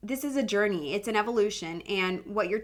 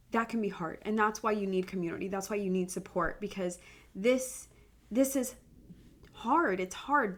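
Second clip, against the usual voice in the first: real emotion, holding back tears; 4 dB quieter than usual. Real, not acted. Homeschool mom opening up to listeners, softly tearful. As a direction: speak through welling tears, quietly. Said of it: "I'm getting emotional".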